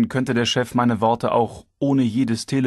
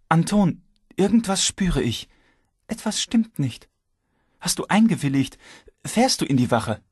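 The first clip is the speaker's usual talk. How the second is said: wife's voice; 7 semitones higher than usual. A narrator's reading. Worried wife voiced.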